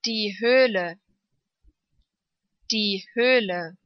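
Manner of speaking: long ö in "Höhle". Shown as a demonstration. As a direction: draw out the ö of "Höhle". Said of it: "Lang ausgesprochen".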